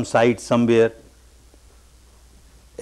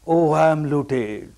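imitated wail; 3 semitones higher, slower than usual. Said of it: "Keeps on crying".

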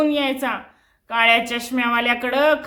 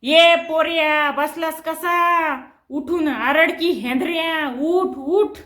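mock bellow at the boy; 3 semitones higher, slower than usual. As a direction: bark at the lazy son to get up and shout. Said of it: "गरजत". (मुलाला उठवण्यासाठी बापाचं हलकं गरजणं)

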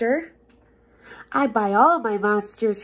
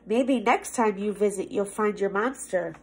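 spooky ending; 5 semitones lower, 5 dB quieter than usual. Acted. Spooky closing line.

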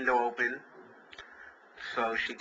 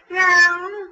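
high, loud mock meow; the Siamese cat answers with a loud high meow; 11 dB louder than usual. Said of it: "she goes".

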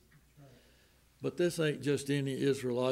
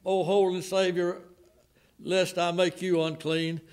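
louder, higher plea; a mild pleading preacher's cry; 3 semitones higher, 4 dB louder than usual. Retold or imitated. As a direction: beg the Savior not to touch you. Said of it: "and I was crying".

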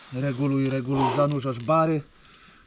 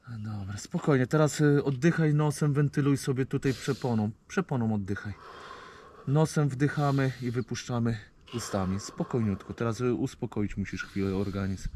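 calm reassuring; 2 semitones lower, 4 dB quieter than usual. Real, not acted. Calming a shocked diver.

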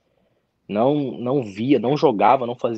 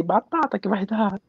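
raised, sure-of-it boast; a lightly acted confident boast; cocky retold boast; 9 semitones higher than usual. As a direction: brag that it will surely work. Cocky boast about exam result.

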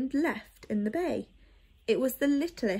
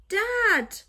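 louder shout; 10 semitones higher, 6 dB louder than usual. Acted. Boy calling his missing parents, louder shout. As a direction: call even louder, high and desperate. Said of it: "he shouted louder still".

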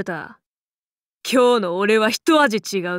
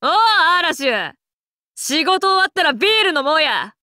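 raised-pitch, casual hail to a mate; hearty call; 5 semitones higher than usual. Acted. Man inviting Arash for a beer after work, hearty.

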